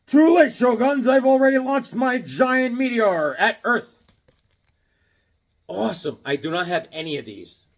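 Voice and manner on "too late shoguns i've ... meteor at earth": slow, louder villain boast; gloating villain read. Acted. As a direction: boast it like a comic book mad scientist. Reading villain cover dialogue.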